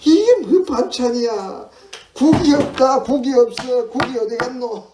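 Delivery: high, loud mock indignation; griping about food. Fussy diner demands the missing soup, indignant griping. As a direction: complain loudly like a fussy diner. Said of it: "먹는 거 타박 많이 하죠".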